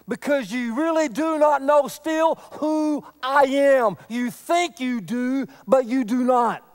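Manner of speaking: stern preaching burst; forceful warning. Acted. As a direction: press it home with force. Jesus voiced, forceful warning.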